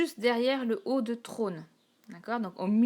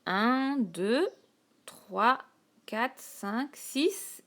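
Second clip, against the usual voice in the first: each count set apart by pauses; teacher counting out syllables; 3 semitones higher, much slower than usual. Shown as a demonstration. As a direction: tick off each syllable aloud. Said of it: "douze syllabes".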